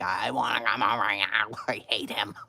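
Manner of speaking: hammed-up bawling complaint, breaking into laughter; retold tantrum wail. Daughter begging mother to bring her home, wailing. Repeats plea louder to mother.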